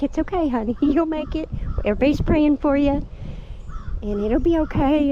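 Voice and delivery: high-pitched, soothing quote of comforting friends; acted reassurance.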